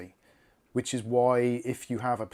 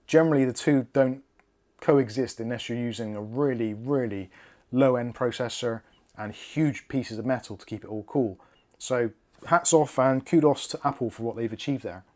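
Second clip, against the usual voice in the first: whistling nose. Real, not acted. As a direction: air whistling through the nose. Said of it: "oh, my nose is whistling".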